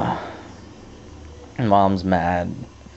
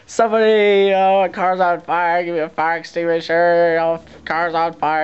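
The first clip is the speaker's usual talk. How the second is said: retold frantic yelling; 9 semitones higher than usual. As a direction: call out for help in a panic. Yelling for a fire extinguisher.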